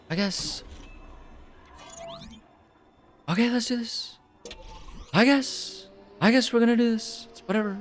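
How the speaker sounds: high, whiny reluctance; grudging, dragged-out whatever; reluctant. Acted. Reluctant agreement, put-on voice.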